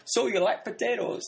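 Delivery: laughing through a mock flirty question; mock flirty line. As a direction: tease it while laughing. Mocking the potato kiss scene.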